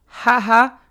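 short, loud, forced ha-ha; mocking two-beat laugh; fake laugh. Shown as a demonstration. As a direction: demonstrate a deliberately phony laugh. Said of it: "that fucking fake laugh".

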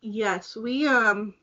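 crunching ice while talking; chewing on ice. Real, not acted. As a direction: talk around a mouthful of ice. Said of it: "sorry, I'm chewing on ice".

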